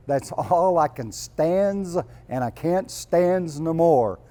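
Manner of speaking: lightly voiced Popeye, slow and drawn out; a hint of Popeye the Sailor Man; Popeye impression. Preacher quoting Popeye to the congregation, slow mild cartoon voice. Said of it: "he would say".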